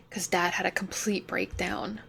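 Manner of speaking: whispered admission about dad. Acted. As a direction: drop to a pained whisper. Painful confession, voice drops.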